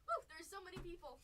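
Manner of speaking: hammed-up excited woo; mock overwhelmed woo. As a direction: whoop like you're swamped by fans. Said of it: "every time I was like".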